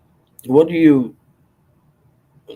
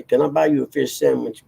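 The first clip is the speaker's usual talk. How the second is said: the full movie line said out, a bit higher; quote out loud; 4 semitones higher than usual. Retold or imitated. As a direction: deliver the whole quote aloud in a light put-on voice. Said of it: "I don't say".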